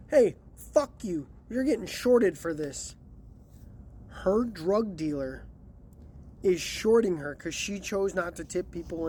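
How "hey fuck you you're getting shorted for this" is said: retold yell. Dealer yells at stingy lady.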